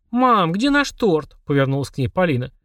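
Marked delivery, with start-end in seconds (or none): 0.1-1.4 slow and high, leaning on наш; slow bewildered question. Acted. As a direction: drag out наш in disbelief. Stunned at the empty plate. (медленно, растерянно)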